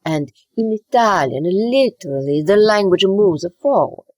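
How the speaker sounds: playful Italian-accented English. Shown as a demonstration. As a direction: push the Italian-accented words forward, openly. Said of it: "it goes forward like this".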